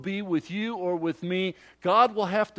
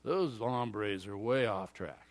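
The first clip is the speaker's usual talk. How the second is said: slow, low scoffing tone, looking down on them; mock the Israelites with a disdainful ugh; disgusted scoff; 6 semitones lower, 5 dB quieter, slower than usual.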